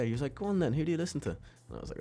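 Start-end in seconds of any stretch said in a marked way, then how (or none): 0.3-1.3 teasing challenge. Retold or imitated. Adam challenging the kid.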